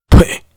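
a loud contemptuous spit; spitting sound. Acted. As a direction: spit on the floor, hard. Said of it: "朝着地上啐了一口道". (狠狠啐一口)

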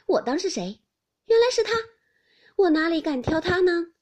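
high, loud sarcastic disdain; mocking, exaggerated humility; cold sneer. A narrator's reading. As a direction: feign awe with a scornful edge. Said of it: "冷笑道".

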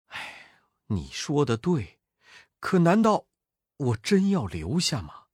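an anxious master at a loss; worried monk. Acted. Monk hesitates.

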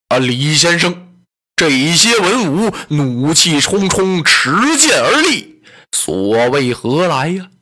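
put-on slow, uneasy voice of the old tyrant; a wary tyrant asking why swords are drawn; puzzled Dong Zhuo. Dong Zhuo asks Li Su about the angry officials, uneasy and slow.

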